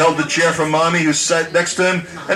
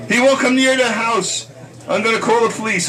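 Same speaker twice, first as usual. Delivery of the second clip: high, frantic mother's rant; mock ranting; 6 semitones higher than usual. Mother ranting about the feared guest, high and frantic. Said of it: "had her ranting".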